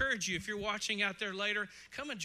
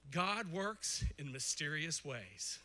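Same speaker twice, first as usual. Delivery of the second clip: slow quoted saying; 4 semitones lower, 4 dB quieter, much slower than usual. Retold or imitated. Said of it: "Have you ever heard this one".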